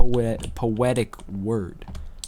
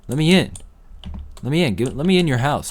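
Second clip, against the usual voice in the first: raised, insistent begging; 5 semitones higher than usual. Pretend. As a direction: yell to be let inside. Begging to get into the house.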